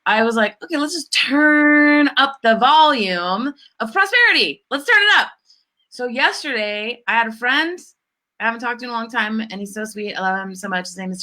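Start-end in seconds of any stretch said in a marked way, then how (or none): 0.6-5.3 upbeat self-quote. Retold or imitated. Her new upbeat response retold.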